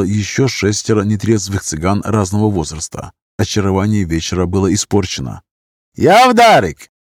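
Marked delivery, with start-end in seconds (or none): 6.0-6.9 put-on loud, high Gypsy-accented call; drunken call in a Gypsy accent. A narrator's reading. Drunk calling out to a girl, loud Gypsy accent. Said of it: "голос с цыганским акцентом".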